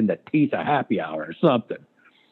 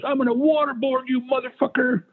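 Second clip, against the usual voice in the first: retold scream; 13 semitones higher than usual. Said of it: "he's screaming at Joe".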